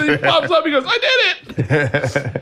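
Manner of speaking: high, breaking up with laughter; laughing while telling. Real, not acted. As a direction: barely get the punchline out through laughter. Laughing at retold pool dive.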